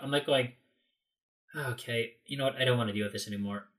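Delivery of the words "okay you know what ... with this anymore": resigned. Retold or imitated. Giving up on the search.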